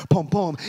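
low, punchy double thump; two pulsing beats like a heart; imitated heartbeat. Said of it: "hear that heartbeat".

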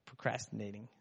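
lazy grumble. Retold or imitated. Someone skipping chores, soft lazy mumble. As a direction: mumble it like you can't be bothered. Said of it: "and you're like".

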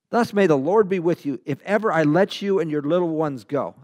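mildly sarcastic mock blessing; a touch of sarcasm, read as Pharaoh.

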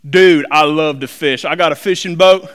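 put-on country hick fisherman; hick accent. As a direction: do a hammed-up hick angler talking fishing. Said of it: "I put a Hick accent on that".

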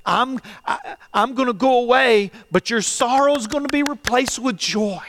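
earnest comforting voice of Jesus; voicing Jesus. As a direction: speak as Jesus consoling his friends.

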